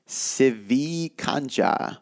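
slow, drawn-out name, syllable by syllable; reading a listener's name, unsure of the accent; careful name reading. Real, not acted. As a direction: sound out an unfamiliar name slowly. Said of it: "I don't know what that accent was".

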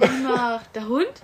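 put-on reading to a toddler. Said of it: "wie so ein Spiel spielen".

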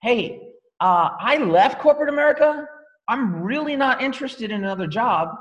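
lively retold pitch to a recruit, a bit high; retelling own pitch. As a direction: replay what she tells new coaches, energetic. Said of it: "I say this".

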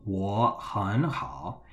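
我很好 slowly, in three dipping tones; triple third tone. Shown as a demonstration. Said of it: "is a triple third tone".

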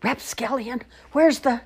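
high storybook holler. A narrator's reading. Old man questions a rapscallion, high holler. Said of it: "hollered out".

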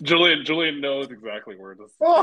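high, loud laughing through words; laughing so hard it's near crying. Real, not acted. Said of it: "I'm about to cry".

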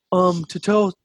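meek private mumbling to his sergeant; timid frail recruit voice. Retold or imitated. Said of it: "that's how he talked to, dude. No crisp, no volume, just frail".

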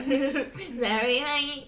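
slow mock voice crack while laughing. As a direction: tease the crack back, slowly. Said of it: "Why did my voice just crack?".

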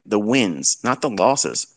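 "wins" leaned on, then "not the losses" set against it; stress on wins. Real, not acted. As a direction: hit "wins", contrast it with "losses". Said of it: "Yes, I said it right".

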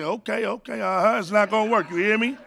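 a light, laid-back Denzel imitation; Denzel impression. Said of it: "in the voice of Denzel".

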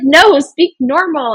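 mock exasperation. Acting out her exasperated correction.

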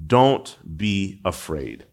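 slow, calm comfort; Jesus calming his terrified disciples, slowly; gentle reassurance. Acted. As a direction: soothe frightened men in the storm. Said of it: "he said".

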